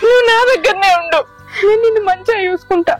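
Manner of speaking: consoling through tears; tearful comforting. Acted. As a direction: soothe the mother while crying yourself. Daughter consoles crying mother.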